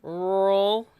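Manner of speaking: rural said with the r's swallowed; says w for r. Shown as a demonstration. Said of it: "I cannot say my R's very well".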